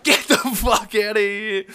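loud, high furious yell; imitating an enraged guard's shout; mad security guard. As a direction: roar it like an angry bouncer throwing someone out. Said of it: "he fucking got so mad".

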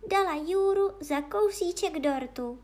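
high, loud princess voice; little princess. Acted. Princess tries to save the magician, high-voiced. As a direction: offer it in a high girlish voice.

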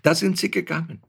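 high, proud mother's voice. A narrator's reading. Mother telling her husband about the crying baby, proudly high. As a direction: beam with pride at the baby. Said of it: "sagte sie stolz".

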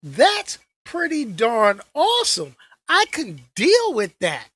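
high, loud and thrilled; excited ooh. Retold or imitated. Vlogger gushing over a new trailer, excited. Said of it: "I was like".

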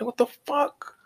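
high whispered "what the fuck"; incredulous whisper. Retold or imitated. Spotting the jealous boyfriend, incredulous whisper. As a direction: mutter it under your breath, baffled. Noticing the guy staring.

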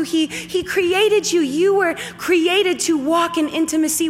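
steady, rising sermon voice; preaching. Acted. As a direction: preach it to the room with conviction. Preaching to congregation.

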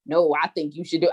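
put-on low, dismissive sassy kid voice; a hint of a mouthy child; backtalking child. Child sassing her mama, dismissive low mutter.

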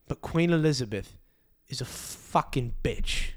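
loosely put-on English accent, emphatic; David Beckham. David Beckham ranting about the Queen, in an uncertain English accent. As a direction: do a wobbly English accent, punching the grievance. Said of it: "I don't know what accent that was".

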